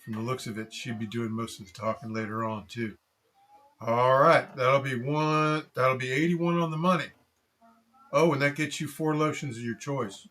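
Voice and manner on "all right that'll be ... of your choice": high, loud friendly clerk voice; overly bright customer-service chirp; cheery shop clerk. Acted. Code Talker rings up sale.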